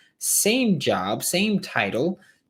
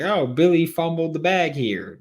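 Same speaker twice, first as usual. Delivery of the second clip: lightly mocked fan, pitched higher; mock fan reaction; 6 semitones higher, 4 dB louder than usual. Host imitating fans blaming Billy, mock fan reaction. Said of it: "non-Gators fans are going to be like".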